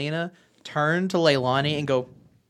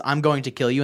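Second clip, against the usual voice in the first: mildly deadpan imitation of a threat; monotone; 2 semitones lower than usual. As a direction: imitate a line read with no expression. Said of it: "in the most monotone voice ever".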